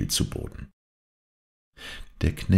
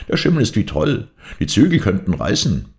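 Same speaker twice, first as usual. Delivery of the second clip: urgent warning called out, higher pitch; servant calling out; 6 semitones higher, 4 dB louder than usual. A narrator's reading. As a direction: warn the master over the storm. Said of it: "rief der Knecht".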